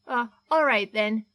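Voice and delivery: barely holding it together; shaky nerves. Acted. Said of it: "took a shaky breath".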